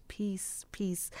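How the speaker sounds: soft reverent whisper; hushed wish for peace. Real, not acted. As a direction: breathe the words out gently. Host wishing peace for the departed.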